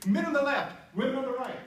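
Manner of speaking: loud call sorting the crowd. Retold or imitated. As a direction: announce it loudly, like an usher. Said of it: "I heard a voice that said".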